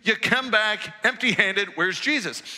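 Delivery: a touch of mock outrage; demanding priests. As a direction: scold the guards for coming back empty.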